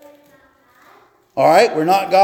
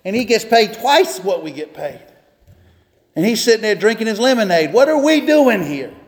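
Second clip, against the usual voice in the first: higher, worked-up griping that climbs to a peak; exasperated rant; 5 semitones higher than usual. Retold or imitated. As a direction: vent like a fed-up ditch digger. J R's rant about the foreman.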